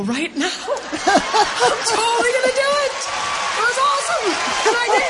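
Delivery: high, loud words broken by laughter; laughing. Real, not acted. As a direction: giggle through the promise. Laughing at her own joy.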